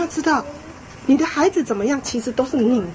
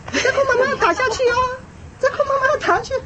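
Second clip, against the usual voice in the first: very high mock-mom warning; hesitant threatening mother; 12 semitones higher, faster than usual. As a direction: imitate a mother threatening without striking. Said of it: "结果他妈拿棍子来，还一直比". (模仿妈妈高声空威胁)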